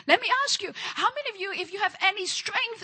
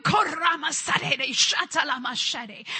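speaking in tongues; 3 dB louder than usual. Real, not acted. Preacher praying in tongues.

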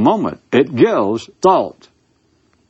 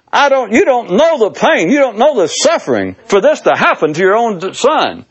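mock grieving mother; 9 semitones higher than usual. Mother voiced, higher, louder.

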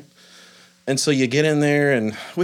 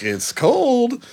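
squeaked high, much higher; mock whiny complaint; 13 semitones higher, 3 dB louder than usual. Dad mock-whining to his sons about cold water, high squeak. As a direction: whine it up high like a reluctant dad.

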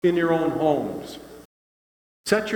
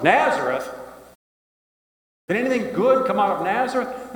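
scoffing disbelief; 7 semitones higher than usual. Acted. Skeptic Nathanael scoffs.

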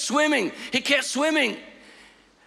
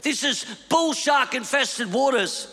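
panicked; 5 semitones higher than usual. Retold or imitated.

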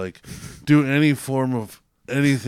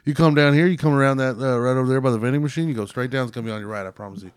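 put-on Southern accent; faster than usual. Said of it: "my accent was good enough".

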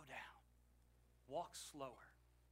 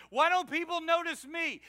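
self-pitying whine; 10 semitones higher, 10 dB louder than usual. Retold or imitated. Self-pitying prisoner voiced.

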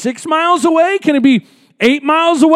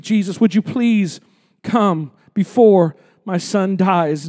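slow desperate plea; 6 semitones lower, 3 dB quieter than usual. Retold or imitated. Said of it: "he says".

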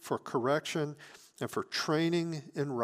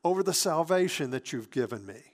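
David crying out to God, higher and louder; fervent praying David; 6 semitones higher, 5 dB louder than usual. Retold or imitated. David prays to God for restoration and joy, fervent. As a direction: plead boldly with God, voice lifted and forceful. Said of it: "here's David, he's praying".

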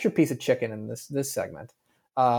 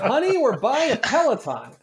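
mock yell to wife, higher; lowering phone to yell; 8 semitones higher than usual. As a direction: call out across the house. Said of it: "let me yell at my wife".

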